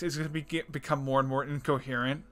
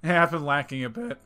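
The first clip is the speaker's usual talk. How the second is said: voice crack; 3 dB louder than usual. Real, not acted. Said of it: "Nice voice crack".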